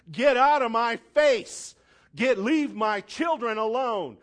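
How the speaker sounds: loud commanding release; shouted rebuke. Pretend. Preacher voicing the believer's prayer against troubles, shouted. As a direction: order it away, loud and sure. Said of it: "Look at that marriage and say".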